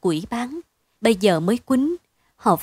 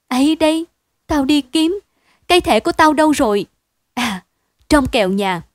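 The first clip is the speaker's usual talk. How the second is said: higher, louder and hurried panic; alarmed; 5 semitones higher, 5 dB louder than usual. A narrator's reading. Husband alarmed by the search, hurried and high. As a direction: scramble for the card in a rush.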